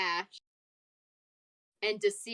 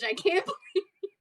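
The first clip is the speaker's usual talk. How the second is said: mock indignation; 3 semitones higher than usual. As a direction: act wronged and incredulous, close to laughing. In-character scolding, rising pitch.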